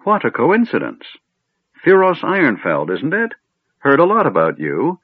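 put-on high-pitched chatty old man; befuddled old mage. A narrator's reading. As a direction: make sociable small talk in a high old voice. Old mage greets Theros chattily.

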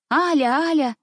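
"Аля, Аля!" mimicked high and sing-song; mocking the governess. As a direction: parrot the governess's reproach. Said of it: "Вечно только и слышишь". (передразнивая гувернантку)

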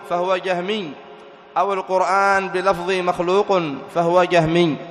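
measured, deliberate reading of a scholarly text; reading a text aloud. A narrator's reading. Teacher reads the imams' creed to students, measured recitation. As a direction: read it out formally, drawing out key phrases.

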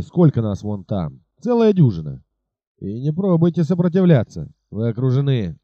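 a highwayman's threatening demand; lightly voiced bandit chief, bullying travellers; menacing robber.

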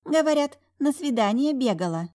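high, sly gossip; mock her with a smirk; teasing twin. A narrator's reading. (насмешливо, высоким голосом)

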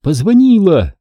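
high, eager burst; excited announcement. A narrator's reading. Jamila tells the narrator excitedly. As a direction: blurt out the news. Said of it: "возбуждённо сообщила Джамиля".

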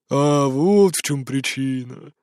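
put-on slow, drawn-out drunk realisation; drawled. A narrator's reading. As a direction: stretch it out slowly. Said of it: "протянул Дёмин".

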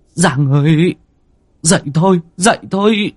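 husband shaking his wife awake, frantic; rising frantic call. Acted. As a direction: pitch climbing with each desperate call. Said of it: "Anh Tín vội vàng lay vợ".

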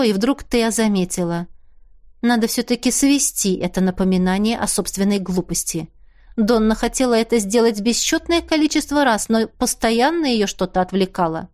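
ordinary delivery, nothing marked

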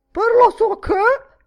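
loud, high doddering-codger impression; snorting grunt. A narrator's reading. Miss Deuce mimicking the old man, snorting grunt. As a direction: grunt it like a tobacco-sodden old dotard. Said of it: "grugnì con voce stronfiante di rimbambito tabaccoso".

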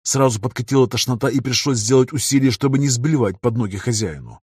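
ordinary delivery, nothing marked

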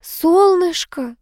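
slow, high coaxing call. A narrator's reading. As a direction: sweeten her up, drawing it out. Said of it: "снова завела Энн".

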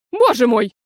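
loud shocked exclamation; alarmed cry. A narrator's reading. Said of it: "закричала в трубку тётя Глоя". (громко, в ужасе)

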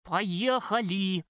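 slow, drawn-out "Поехали"; a mild, slowed command; drawn-out order. A narrator's reading. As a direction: stretch the order out, fists clenched. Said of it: "крикнула я".

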